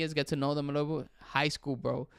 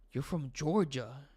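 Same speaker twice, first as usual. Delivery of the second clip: slow reading aloud; slower than usual. Real, not acted. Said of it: "reading slowly off screen".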